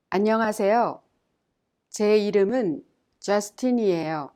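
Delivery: clear, measured model reading with pauses to repeat; repeat-after-me Korean drill; model for repetition. Shown as a demonstration. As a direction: read each line so learners can echo it. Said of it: "Listen to it once more and repeat it".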